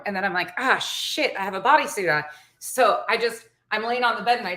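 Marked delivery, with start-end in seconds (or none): 0.6-2.2 raised-pitch retold "oh no"; sudden realisation. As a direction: act out a mild sudden dismay.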